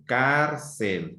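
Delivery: "Cárcel" in two drawn syllables, CÁR the stronger; stress on CÁR. Shown as a demonstration. Teacher repeating the example word for pupils, stress on CÁR. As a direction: hit the first syllable of "Cárcel". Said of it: "sílaba de mayor intensidad".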